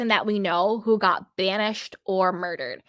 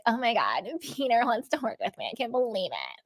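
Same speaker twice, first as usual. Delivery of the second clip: mock pick-me gush; 5 dB quieter, faster than usual. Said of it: "very pick me energy".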